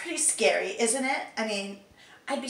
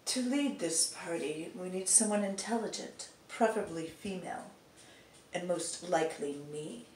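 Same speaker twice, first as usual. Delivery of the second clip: softer, self-satisfied boast; smug and haughty; 4 semitones lower, 7 dB quieter than usual. Acted. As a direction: purr it with smug superiority. Voice actor trying line takes.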